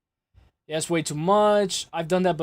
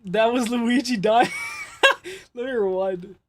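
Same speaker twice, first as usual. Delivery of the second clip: laughing; 4 semitones higher than usual. Real, not acted. Streamer laughing about the Luigi sound effect, barely holding it in. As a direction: really crack up while trying to talk.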